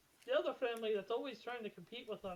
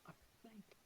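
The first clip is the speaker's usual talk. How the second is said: very soft, secretive murmur; confidential hush; 19 dB quieter than usual. Acted. Farmer leans in close to confide, hushed. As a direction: drop right down, as if in his ear. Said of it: "he leans in closer".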